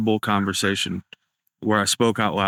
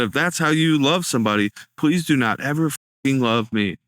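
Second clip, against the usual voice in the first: counselor's blunt line; 4 semitones higher than usual. Retold or imitated. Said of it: "he dropped an F-bomb on me".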